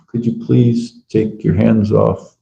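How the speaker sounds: slow, measured, even-toned plea; calm request. Retold or imitated. Devotee asks prostitute to take hands off, calm request. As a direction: imitate an unruffled, polite refusal. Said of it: "just calmly said".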